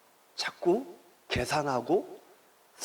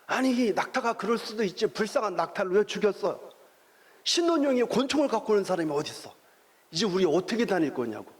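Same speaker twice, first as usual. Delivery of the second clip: higher, indignant scolding retold; angry wife; 5 semitones higher than usual. Wife scolding husband after he shot the camel, indignant and higher. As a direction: raise the pitch and scold him. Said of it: "길길이 화를 내면서".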